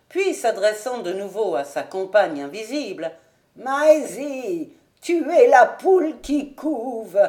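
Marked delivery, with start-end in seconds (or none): 3.6-7.2 high, slow aged call; calling old servant. A narrator's reading. Old servant calling to the unseen maid, high call. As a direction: shout orders to the kitchen.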